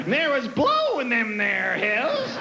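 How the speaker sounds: lightly voiced old prospector, slow. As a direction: drawl it like a gold rush prospector. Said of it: "old prospector Rick".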